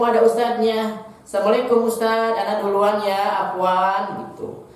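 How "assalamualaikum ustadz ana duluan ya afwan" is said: quick, higher cheerful student greeting; a student on a bike calling out politely; polite passing greeting. Shown as a demonstration. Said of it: "kalian naik sepeda". (murid bersepeda menyapa ustadz dengan cepat dan ceria)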